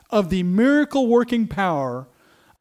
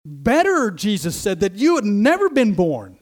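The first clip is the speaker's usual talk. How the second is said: a touch louder, urgent telling of Jesus; lightly voiced Jesus, pressing; preacher urgently quoting Jesus; Jesus quoted; 3 semitones higher, 4 dB louder than usual. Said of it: "he says".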